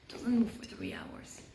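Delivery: hushed, slow whisper. A narrator's reading. Telling how he hid in the bush, slow tense whisper. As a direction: whisper it like you are hiding.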